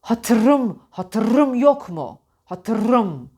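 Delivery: "hatırım" with the R trilled far too long; over-rolled "hatırım", as a wrong example; overpressed rolled R. Shown as a demonstration. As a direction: lean heavily on the R in "hatırım". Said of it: "Çok baskılı söylemek de yanlış".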